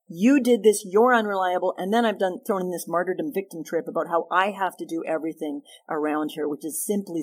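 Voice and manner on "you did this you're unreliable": critical accusation. Shown as a demonstration. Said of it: "I've made it really personally critical".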